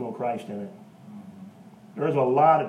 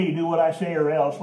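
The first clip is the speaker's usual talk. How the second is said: mock gangster threat; 4 semitones higher, 6 dB louder than usual. Shown as a demonstration. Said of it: "like somebody's gangster friend or some hateful man".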